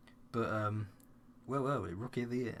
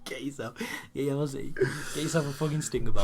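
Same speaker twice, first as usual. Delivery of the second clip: laughing; 4 semitones higher, 4 dB louder than usual. Real, not acted. Laughing recommendation.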